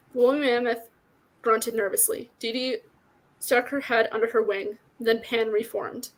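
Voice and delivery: measured read-aloud with light character acting; story narration. A narrator's reading. Reader shares a favorite fantasy book with listeners, story narration. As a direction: read the tale out clearly and steadily.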